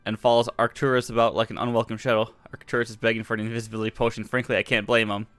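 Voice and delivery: brisk letter reading; reading a letter aloud. Acted. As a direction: read the letter quickly, lightly. Reads letter aloud in game.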